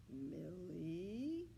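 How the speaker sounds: warning call with a rising end. A narrator's reading. Ernest warning Millie away from the puppy, warning tone. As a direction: warn her off gently. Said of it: "Ernest warned".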